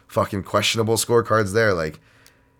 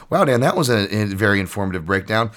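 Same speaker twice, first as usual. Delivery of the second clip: mock self-praise; 2 semitones higher, 5 dB louder than usual. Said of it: "mocking himself by name".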